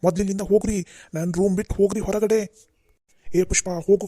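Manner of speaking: angry order. Acted. Father orders family out.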